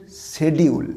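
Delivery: British schedule, "শিডিউল" with an e first vowel; British pronunciation. Shown as a demonstration. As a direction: say "শিডিউল" as she-di-ul. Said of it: "British উচ্চারণটা হচ্ছে".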